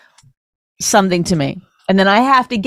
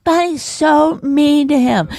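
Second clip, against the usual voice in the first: mock tut-tutting; 5 semitones higher, slower than usual. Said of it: "This is what people go".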